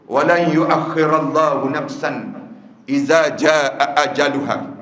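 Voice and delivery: slow, chanted Arabic recitation; Quranic recitation. Acted. Preacher recites the king's plea in Arabic, slow and chanted. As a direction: intone the verse slowly and reverently.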